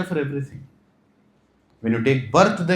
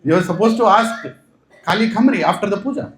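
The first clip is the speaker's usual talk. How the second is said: urgent reminder; 5 semitones higher, 4 dB louder than usual. Acted. Guru urging the forgetful king.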